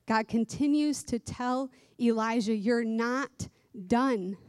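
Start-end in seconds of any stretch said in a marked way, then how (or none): 2.5-4.4 slow, firm reassurance. Acted. Voices God's words to Elijah.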